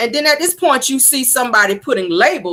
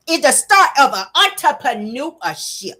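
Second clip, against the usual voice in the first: higher, syllable-by-syllable mock reading; sounding out words; 5 semitones higher than usual. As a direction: mimic someone struggling with a teleprompter. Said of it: "like she's sounding them out".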